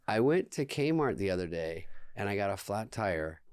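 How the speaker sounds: slightly slowed, level joke delivery; slow deadpan joke. Shown as a demonstration. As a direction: lay out the set-up a little slowly, deadpan.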